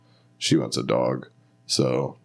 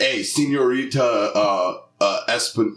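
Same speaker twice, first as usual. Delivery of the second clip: put-on Spanish Delco accent; 3 semitones higher than usual. Comic recalling a class bit, Spanish Delco accent. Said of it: "Spanish Delco class".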